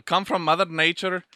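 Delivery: hesitant put-on Irish accent. Man redoes packet line for friend filming, mock Irish. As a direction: try the Irish brogue. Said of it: "You said potato so good".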